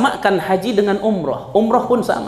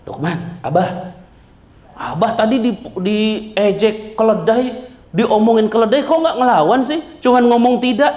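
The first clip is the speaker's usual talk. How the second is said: lightly voiced son; 4 semitones higher than usual. Son complains to his father.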